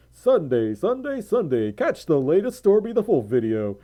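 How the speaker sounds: mock announcer selling the Sunday video; half-joking commercial voice; cheesy promo voice. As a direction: hype up the plug like a cheesy TV ad. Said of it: "I will never talk like that ever again".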